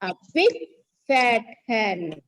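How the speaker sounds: halting teacher-led rhyme, phrase by phrase; number rhyme recitation. Shown as a demonstration. Teacher revises the number rhyme once again with pupils, measured recitation. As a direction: recite in short separated phrases, leaving room to repeat.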